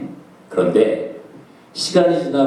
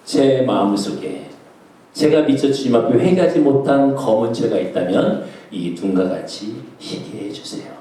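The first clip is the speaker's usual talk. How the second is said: retold prayer; 6 semitones lower than usual. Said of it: "기도했어요".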